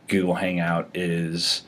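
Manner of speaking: halting, stumbling over words; stammering while filling time; stuttering. Real, not acted. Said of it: "I'm stuttering 'cause I feel like I'm filling time here".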